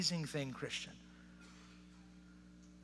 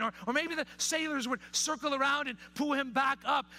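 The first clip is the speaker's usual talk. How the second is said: animated, raised-pitch preaching; impassioned preaching; 7 semitones higher than usual. Real, not acted. Preacher imagining the rescue Jonah hoped for, impassioned. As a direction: press on through the imagined rescues.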